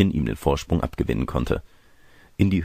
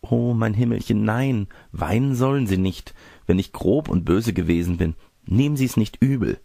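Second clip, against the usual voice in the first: put-on apologetic girl; 4 semitones higher than usual. Girl anxiously apologising, consoling.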